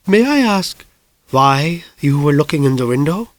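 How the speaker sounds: lightly voiced, coolly polite neighbour; mild put-on lady probing; Mrs Lysander asking. Mrs Lysander questioning the boy.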